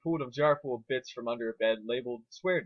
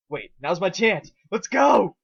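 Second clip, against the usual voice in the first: eager rush; 6 semitones higher, 10 dB louder, slower than usual. A narrator's reading. Eager ambush moment.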